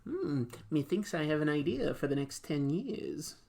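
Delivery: mock Kevin Feige. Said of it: "he goes".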